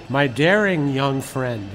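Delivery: slow, lightly imitated Viennese accent. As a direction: quote an old mentor with a hint of Viennese. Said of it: "in his Viennese accent".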